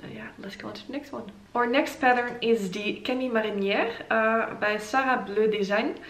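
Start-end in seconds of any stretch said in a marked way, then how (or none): 2.7-3.9 Camille Marinière said in a put-on French accent; playful French accent on Camille Marinière. Shown as a demonstration. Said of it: "in my best French accent".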